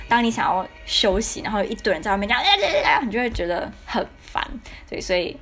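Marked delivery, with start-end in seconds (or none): 2.4-3.0 high, loud mock "hey, hey, hey" of noisy neighbours; a pitched-up mock holler from the dorm corridor; mock rowdy shouting. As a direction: imitate rowdy people calling out in the hallway.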